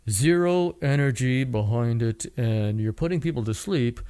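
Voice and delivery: mildly drained, putting listeners to sleep; low, no energy. Shown as a demonstration. Podcaster showing a voice that bores people, low and listless.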